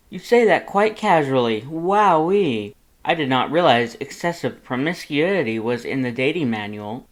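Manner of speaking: proud, cheery, boastful and loud; good-natured Papyrus. Acted. Papyrus introduces himself to Lust, booming and cheerful.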